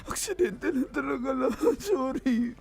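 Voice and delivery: crying excuse; sobbing, desperate explanation; tearful pleading. Real, not acted. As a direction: plead through tears to be forgiven. Tearful confession, begging forgiveness.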